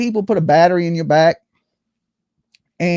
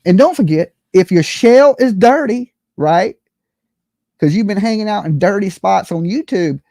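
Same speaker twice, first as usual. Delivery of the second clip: hammed-up commercial pitch; mock ad read; 3 semitones higher than usual. Vlogger pitching joke soap to viewers, mock ad. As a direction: sell the soap like a late-night ad.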